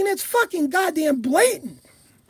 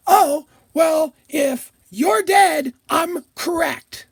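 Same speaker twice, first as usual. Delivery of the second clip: mock smug killer; much slower than usual. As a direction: drag it out like a smug idiot. Mocking killers' logic.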